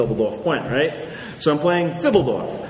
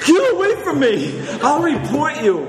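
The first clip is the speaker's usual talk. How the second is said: much higher, louder yelp, laughing; mock panicked yell; 13 semitones higher, 4 dB louder than usual. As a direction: shriek it while running away.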